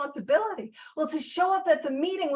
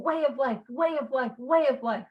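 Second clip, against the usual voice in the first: "way of life" said three times as a refrain; emphatic repetition. Real, not acted. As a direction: drum in "way of life" with each repeat. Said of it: "I've been emphasizing".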